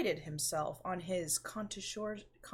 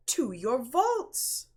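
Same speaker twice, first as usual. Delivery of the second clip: louder, higher, slow and emphatic; eager insistence; 6 semitones higher, 6 dB louder, slower than usual. Acted. Fortunato urging his friend to the vaults, loud slow insistence. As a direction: drag him along with each word.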